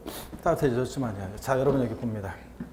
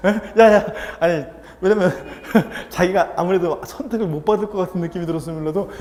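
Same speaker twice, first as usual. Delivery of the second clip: laughing; 2 semitones higher, 5 dB louder than usual. Real, not acted. Laughing mid story.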